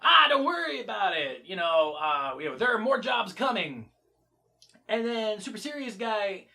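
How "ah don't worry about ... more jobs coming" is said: carefree. Retold or imitated. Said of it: "is like".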